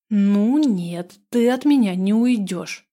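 loud, resolute outburst; determined shout. Acted. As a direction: call out with fierce resolve. Heroine chases a stranger.

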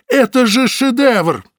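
high, loud and slow; excited. Acted. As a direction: marvel at it. Butovich marvels at the horse.

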